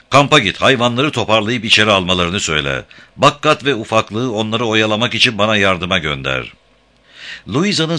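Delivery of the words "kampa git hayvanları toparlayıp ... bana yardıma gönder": calling out. Acted. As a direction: shout orders across the field. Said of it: "Louisa'ya seslendi".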